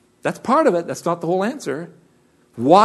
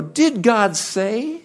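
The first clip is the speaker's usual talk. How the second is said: sly serpent; 5 semitones higher, much slower than usual. Retold or imitated. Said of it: "he says".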